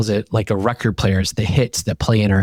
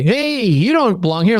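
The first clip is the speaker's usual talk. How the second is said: resistance voice; 10 semitones higher than usual. Retold or imitated.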